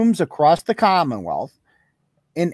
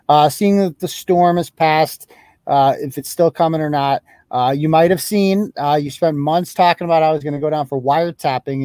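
taunting voicemail. Real, not acted.

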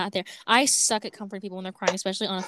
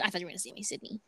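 soft mimicking quote; quoting quietly; 2 semitones lower, 13 dB quieter, faster than usual. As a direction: mutter her words back. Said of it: "'Cause you said".

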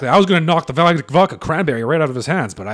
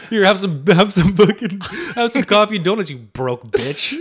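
mock snooty lady; 4 semitones higher, 4 dB louder than usual. Voicing homeowner mockingly.

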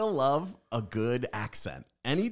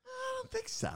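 quiet guest answer; 9 dB quieter than usual. Retold or imitated. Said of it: "the quiet one".

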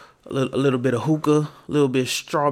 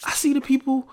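usual speaking voice

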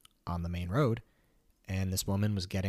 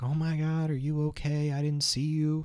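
higher-pitched mock-upset driver; tearful, imitated; 8 semitones higher, 4 dB louder than usual. Upset driver checks on the runner she hit, tearful. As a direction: play a panicked apology, on the verge of tears. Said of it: "was, like, in tears".

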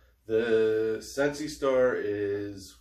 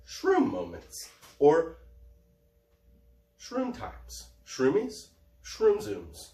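playful high voice; 6 semitones higher, much slower than usual. Acted. Playful list of shroom names.

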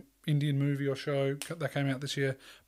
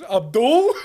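loud, high mock call through laughter; laughing punchline; 8 semitones higher, 13 dB louder than usual. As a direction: call it out while cracking up. Retells punchline, cracking up.

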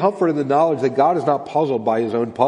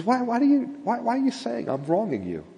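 tender question, starting high and softening; patient, loving; 7 semitones higher, 4 dB quieter than usual. Acted. God questioning those who say he wrongs them, lovingly. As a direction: ask it gently, with patient puzzlement. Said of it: "God very patiently, very lovingly".

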